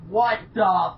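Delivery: loud, slow, drawn-out bafflement; stunned complaint at the screen; exasperated disbelief. Retold or imitated. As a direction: stretch each word out in disbelief. Retelling baffled reaction to episode.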